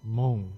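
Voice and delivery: "mong" with a rounded o into a nasal ng; slow "mong", closing on a hum; Jua-dialect "mong", nasal ending; Jua dialect word. Shown as a demonstration. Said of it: "in my wife's dialect".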